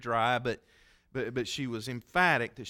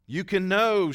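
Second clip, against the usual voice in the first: emphatic quote; 6 semitones higher, 7 dB louder, slower than usual. Retold or imitated. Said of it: "she said".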